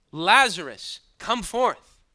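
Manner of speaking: shouted command, high and loud; loud cry. Acted. Jesus calling into the tomb, loud shout. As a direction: call him out of the tomb, full voice. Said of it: "he cried out with a loud voice".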